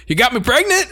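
high, shocked squeak of disbelief. Retold or imitated. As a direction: gasp it out in disbelief. Character's shocked question retold.

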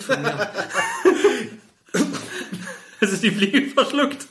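breaking into laughter mid-sentence; giggling through the words; laughing. Real, not acted. Both crack up laughing.

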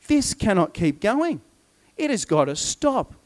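measured, emphatic outrage; irate. Acted. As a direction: act indignant without shouting. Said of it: "he gets so irate".

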